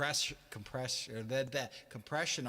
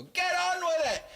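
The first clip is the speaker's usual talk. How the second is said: high, loud imitated heckle; heckler's shout; 8 dB louder than usual. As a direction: yell it at the band like a heckler. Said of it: "Just like a heckler".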